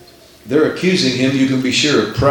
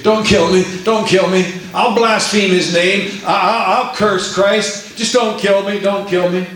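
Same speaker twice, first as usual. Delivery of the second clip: pleading; 5 semitones higher than usual. Acted. Voicing saints begging to recant.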